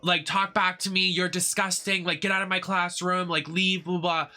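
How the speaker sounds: high-pitched imitation of an outraged teacher; mock freak-out. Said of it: "she starts freaking out at me".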